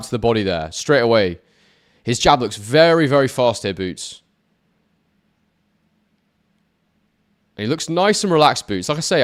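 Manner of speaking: lively ringside boxing call; play-by-play commentary. Acted. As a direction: call the punches as they land. Live round play-by-play.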